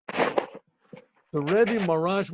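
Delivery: "The Rebbe Marash" stretched very slowly, each word drawn out; drawn-out restart. Shown as a demonstration. Teller restarting the tale for the listener: slowly drawn-out "The Rebbe Marash".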